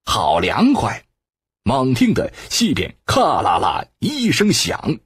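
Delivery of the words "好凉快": delighted. Acted. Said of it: "周颠喜道".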